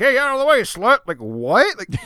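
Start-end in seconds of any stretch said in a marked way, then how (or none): 0.0-1.0 loud yell from far off. Describing a random off-screen person in a movie, retelling an off-screen yell. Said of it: "some rando person just yelling like".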